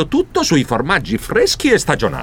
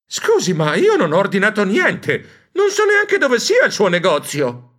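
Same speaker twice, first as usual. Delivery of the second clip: faint; 5 semitones higher than usual. Acted. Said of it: "mi sentii mancare".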